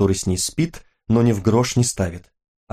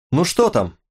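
calling out; 7 semitones higher than usual. A narrator's reading. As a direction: call from another room, restrained. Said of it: "прокричала из ванной Лена". (негромко изображённый окрик из ванной)

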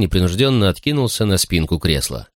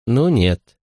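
purring, slowed breathy tease; breathy bombshell; slower than usual. Acted. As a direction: purr it like a bombshell. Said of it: "промурлыкала она".

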